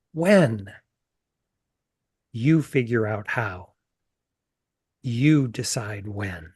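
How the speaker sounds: unhurried author's reading of a scene, voicing Mary and Frankie lightly; reading from her novel. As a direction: read the passage aloud, taking time over Mary's lines. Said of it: "I'd like to read a passage from the novel".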